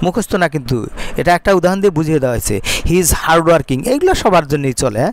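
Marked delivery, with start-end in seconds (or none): 2.9-3.9 slow dictation. Shown as a demonstration. Teacher dictates model sentence.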